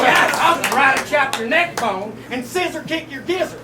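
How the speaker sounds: hammy Southern redneck voice; fake Southern accent. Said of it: "finish rapping this round with a fake Southern accent".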